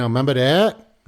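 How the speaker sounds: lightly imitated New England kid, R's dropped; mock New York-Boston toddler talk; kids' New England accent. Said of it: "New England or a Boston or a Maine or a New York accent".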